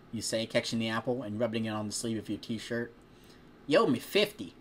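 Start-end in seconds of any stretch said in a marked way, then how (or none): 3.7-4.5 put-on higher, louder playful farm-girl voice; teasing farm girl. Farm girl joking with a customer, higher playful voice. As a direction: tease him about the debt.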